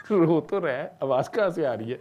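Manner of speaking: loud, high frantic retelling of a panicked mother; a mother suddenly realising her baby is missing, loud frantic voice. Retold or imitated.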